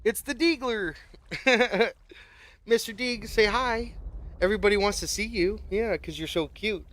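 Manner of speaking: high cooing pet voice. Real, not acted. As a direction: coo at the puppy. Talking to the dog.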